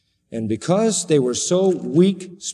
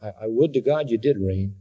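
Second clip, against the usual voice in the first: low-pitched mock wish; understated sarcasm, dropped low; dry sarcasm; 3 semitones lower than usual. Preacher as Paul to would-be kings, dry sarcasm. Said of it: "It's all just sarcasm".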